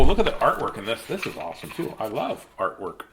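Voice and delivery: ordinary delivery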